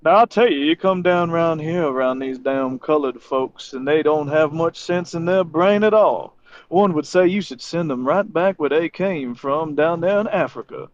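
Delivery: put-on a bigoted old Georgia local, unhurried; Georgia redneck. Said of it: "Yeah, so they".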